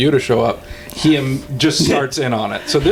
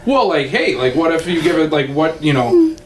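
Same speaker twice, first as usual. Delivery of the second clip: easy, tentative casual suggestion. Retold or imitated. Friend explaining how he read the text, casual suggestion. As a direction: float it loosely, feeling it out. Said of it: "like, just, like, a casual".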